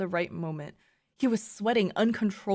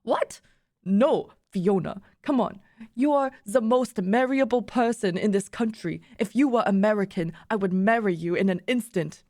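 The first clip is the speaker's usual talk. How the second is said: put-on insistent, in an amateur German accent; attempted German accent. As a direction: reassure her in a loose German accent. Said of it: "I can't do a German accent".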